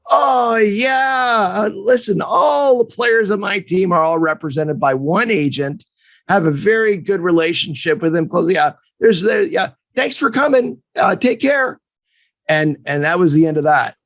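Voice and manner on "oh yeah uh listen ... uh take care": higher, brisk mock brush-off; dismissive coach. Coach brushing off the young agent, mock dismissive. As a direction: wave him off politely but fast.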